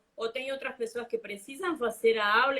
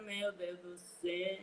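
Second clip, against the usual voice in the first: softer, slow, mock-despairing sigh; mock dismay; 5 semitones lower, 13 dB quieter than usual. Telling Aninha her reply to compliments, a soft slow mock dismay. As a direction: groan it under your breath. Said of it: "E eu falo".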